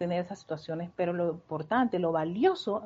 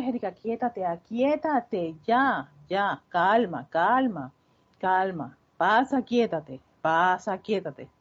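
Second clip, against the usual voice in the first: firme y tranquilizadora, más fuerte; calmándose a sí misma; 4 dB louder than usual. Retold or imitated. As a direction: como quien calma a una niña asustada. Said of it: "y después". (consolándose a sí misma, más fuerte)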